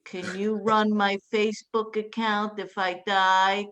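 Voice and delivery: slow, doom-laden mock voice of a gloomy sister; imitating her gloomy sister asking about Facebook. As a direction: drag it out like the world is ending. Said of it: "She goes".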